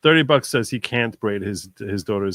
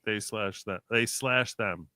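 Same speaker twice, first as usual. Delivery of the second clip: "slash" punched in "They slash them"; stress on slash; 6 dB quieter, slower than usual. Shown as a demonstration. Streamer retelling the joke's punchline, punching "slash". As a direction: lean on "slash" to land the pun. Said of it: "They, them".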